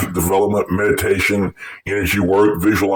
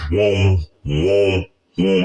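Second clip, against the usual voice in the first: imitated vibrating hum; much slower than usual. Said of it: "getting louder and louder".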